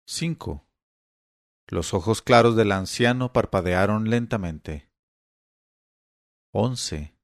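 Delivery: faltering, halting breathless recall; old man straining for each number; almost breathless. Acted. Old father struggling to repeat numbers, breathless. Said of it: "terminó Tom casi sin respiración".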